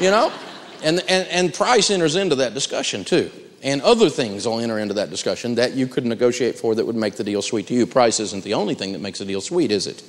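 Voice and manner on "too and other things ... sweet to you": ordinary talk, nothing marked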